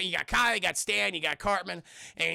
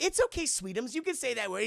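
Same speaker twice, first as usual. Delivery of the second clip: coaxing mom; 4 semitones higher than usual. Retold or imitated. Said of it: "Carmen's mom's like".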